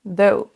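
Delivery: THOUGH as an O-OU diphthong; son double. Shown as a demonstration. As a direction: say THOUGH with a gliding double vowel. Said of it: "un son double". (THOUGH en diphtongue)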